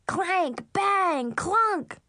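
high, punched clanging words; imitated banging. A narrator's reading. Little sister gleefully banging pans, clanging.

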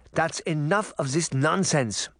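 Granny's shout. A narrator's reading. Granny stops the boys' quarrel, understated shout. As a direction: scold the boys in a grandmother voice. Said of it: "Granny shouted".

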